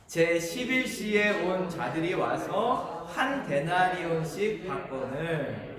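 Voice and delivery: slow, measured group Bible reading; scripture read-aloud. Real, not acted. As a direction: lead the congregation in reading, slowly. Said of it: "같이 한번 읽어볼까요".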